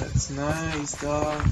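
hippie voice. Acted. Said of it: "You sound like a hippie".

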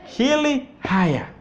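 Hili haya said slowly, each word spelt out clearly; slow drill. Shown as a demonstration. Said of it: "You see that?".

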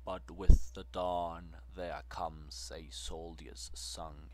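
loud, ringing recitation of the soldier's song; booming verse recital; loud declamation. A narrator's reading. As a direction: proclaim it across a field.

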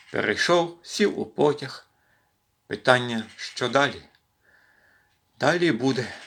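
measured verse with pauses between phrases; poem recitation. Acted. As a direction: recite line by line, unhurried breaks.

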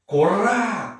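"Korá" yelled high with a rolled R; trilled R. Shown as a demonstration. Teacher showing the tongue trill, "Korá" with rolled R. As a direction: roll the R in "Korá" and shout it. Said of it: "eles trepidam a língua aqui em cima".

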